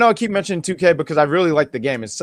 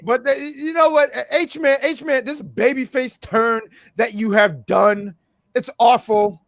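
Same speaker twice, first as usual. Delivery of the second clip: wrestling promo voice; 5 semitones higher than usual. Pretend. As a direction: call out a rival in the ring. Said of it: "wrestling promo voice".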